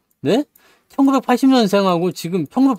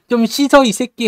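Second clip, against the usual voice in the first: higher-pitched mock scolding; mock sibling squabble; 6 semitones higher than usual. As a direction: imitate a sibling nagging and cursing. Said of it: "막 그러면서". (동생이 구박하는 흉내로 장난스럽게 버럭)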